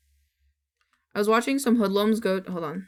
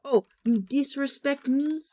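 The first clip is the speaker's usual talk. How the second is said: quoting meme; 5 semitones higher than usual. Retold or imitated. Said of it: "the meme".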